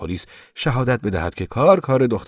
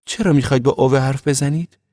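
raised, louder questioning voice; calling through door; 8 semitones higher, 6 dB louder than usual. A narrator's reading. Parvaneh questions the hidden reporter, loud raised call. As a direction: ask it loudly through a door.

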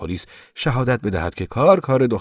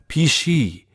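high-pitched gleeful call; happy cry; 10 semitones higher, 4 dB louder, much slower than usual. A narrator's reading. Three-year-old girl spots the cat, happy high cry. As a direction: call out to a kitty with glee. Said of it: "با خوشحالی داد زد".

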